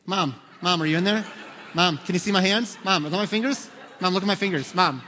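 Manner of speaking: put-on whiny kids. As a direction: pester mom nonstop like impatient kids. Kids at bathroom door.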